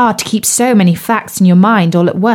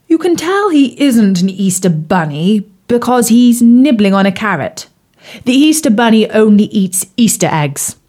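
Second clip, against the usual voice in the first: frog prince voice. Acted. Bertie the frog's voice.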